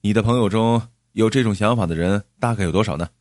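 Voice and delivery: quick, eager question; acted hasty, interested inquiry; hurried asking. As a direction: ask fast, keen on a business chance. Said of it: "忙问".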